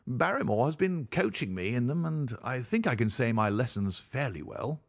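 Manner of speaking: a hint of an eager host; baronet host. Baronet telling guests about his coaching, lightly animated.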